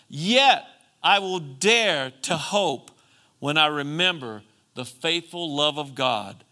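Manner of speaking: forceful scripture recitation, slowing on key phrases; emphatic preaching. Acted. Preacher quoting a lament to the congregation, emphatic. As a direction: preach the verse with rising conviction.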